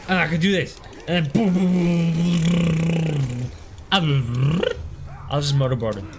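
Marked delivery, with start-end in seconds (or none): 1.1-4.6 rapid-fire booms running into a long rumble; boom-boom-boom blurring into one held noise; imitated booms. Real, not acted. Player voicing rapid hits, imitated booms.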